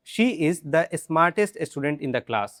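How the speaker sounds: slow, clear drill line; slow drill sentence. Shown as a demonstration. Teacher leads drill, slow and clear. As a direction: say it slowly for repeating. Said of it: "इसको the पढ़िए".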